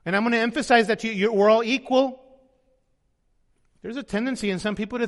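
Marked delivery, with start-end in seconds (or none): 0.0-2.2 louder, emphatic mock put-down, fast in the middle; mock cutting down. Preacher mocking proud people who put others down. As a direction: cut him down to size, loud and pointed. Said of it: "cut people down to size".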